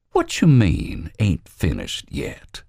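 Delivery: slow, uneasy question; worried. Acted. Robert Lee to Albert, uneasy. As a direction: dread the answer.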